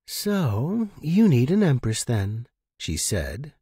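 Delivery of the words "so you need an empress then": a light flirty edge, understated; flirting with the station keeper over the radio; sexy edge. Acted. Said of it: "that sexy edge coming back into her voice".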